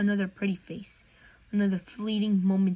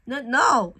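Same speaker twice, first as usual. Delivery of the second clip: quick loud higher no no; blurted; 4 semitones higher, 7 dB louder than usual. A narrator's reading. Flustered boy blurting his eager answer. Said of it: "he blurted".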